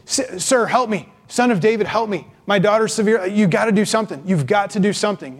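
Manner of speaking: mock yell through a crowd; acted calling out. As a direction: call to him from a distance, pleading. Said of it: "maybe yells through the crowd".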